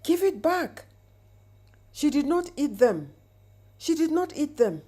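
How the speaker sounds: a tormented voice shrieking its demand; possessed scream. Acted. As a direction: scream it like something is tearing at you. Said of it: "He screamed words that made no sense".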